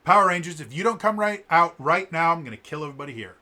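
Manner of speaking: loud, high threat that trails off fast; villain ultimatum. Retold or imitated. Astronema demanding the Rangers surrender, loud and menacing. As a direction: call the heroes out like a hammy villain. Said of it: "she's addressing the people of Angel Grove".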